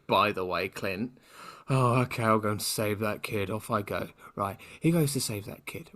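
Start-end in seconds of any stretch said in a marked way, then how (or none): 1.7-4.1 mock-weary sigh, trailing off; reluctant sigh. Podcaster mimicking Clint off to save the kid, reluctant. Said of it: "He did it with a massive sigh".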